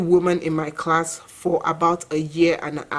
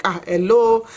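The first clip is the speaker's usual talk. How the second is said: put-on thick Nigerian accent; 4 semitones higher than usual. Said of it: "you know, very thick and stuff".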